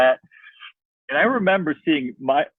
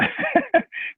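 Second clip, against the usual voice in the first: high laugh. Real, not acted. Laughing at own story.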